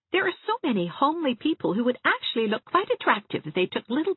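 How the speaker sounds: Anne, reassuring. Acted. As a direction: lift her up gently and brightly. Anne voiced by reader.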